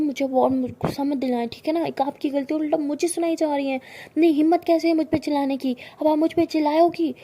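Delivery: loud indignant yelling, building up; how dare you yell at me; outraged shout. A narrator's reading. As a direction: girlfriend outraged at being shouted at. Girlfriend outraged at being yelled at.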